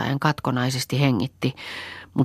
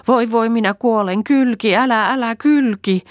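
put-on high, louder wailing old woman; wailing in pain; 10 semitones higher, 6 dB louder than usual. A narrator's reading. Old woman wailing in Pentti's arms, high pained cries. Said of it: "Muori parkui".

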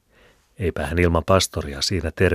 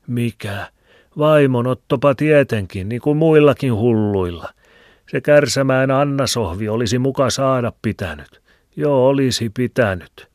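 put-on higher, louder old Filemoni with a cackle; old man's voice; 8 semitones higher, 6 dB louder than usual. A narrator's reading. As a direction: chuckle and ramble like an old hermit. (vanhan miehen hekottava ääni)

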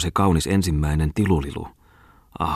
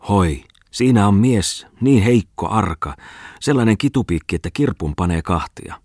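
mocking taunt; 3 semitones higher than usual. Drunken guests taunting at party.

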